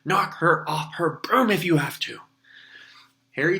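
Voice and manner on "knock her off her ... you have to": louder, higher roar. A narrator's reading. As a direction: bellow the order over the wind. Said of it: "Wood roared".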